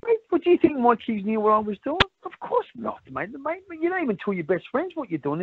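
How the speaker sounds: high-pitched, incredulous denial; emphatic protest. Real, not acted. Father denying his kids knew about his business, emphatic protest. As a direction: pitch it way up, insisting it's obvious. Defends kids' ignorance of his crime.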